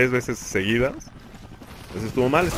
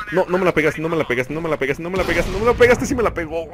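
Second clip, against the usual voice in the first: rising panic; 5 semitones higher, 3 dB louder than usual. Real, not acted. Enemy closing in on him.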